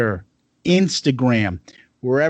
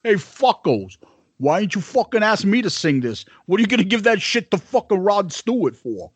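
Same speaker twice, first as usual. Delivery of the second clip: lightly put-on, higher rocker voice; a rock drummer; 5 semitones higher than usual. Host griping as the band's slighted singer, impression of a rock drummer. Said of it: "then that's Peter Criss".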